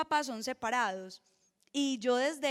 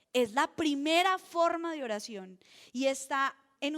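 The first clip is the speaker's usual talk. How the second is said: louder restatement; 5 dB louder than usual. Real, not acted.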